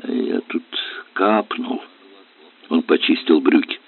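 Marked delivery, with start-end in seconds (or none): 0.0-1.8 embarrassed near-whisper, much softer; hesitant mumble. A narrator's reading. Ilya caught out over a stain on his new trousers, hesitant near-whisper. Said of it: "замялся Илья".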